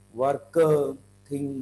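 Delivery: "work-uh, thing-uh", final sound dragged; stressed word endings. Shown as a demonstration. Teacher shows what not to do, over-stressed endings. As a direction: add a heavy "uh" after "work" and "thing". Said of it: "Don't stress on the last word".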